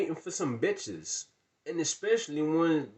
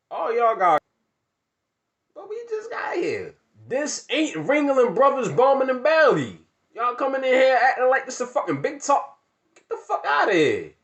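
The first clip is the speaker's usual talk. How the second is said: higher, louder furious yell; shouting them out; 9 semitones higher, 9 dB louder than usual. Retold or imitated. Kicking the girls out of his house, shouting. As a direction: throw them out at full volume.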